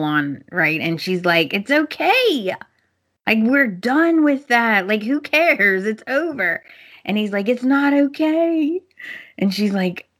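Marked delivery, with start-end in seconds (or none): 1.5-6.6 acting out a wife waving it away; insistent reassurance. Wife tells rambling husband it is over, insistent. Retold wife brushes off the apology. 7.5-8.8 high, slow retold objection; acting out an upset "not okay"; mock protest. Husband answers wife that it isn't okay, protesting.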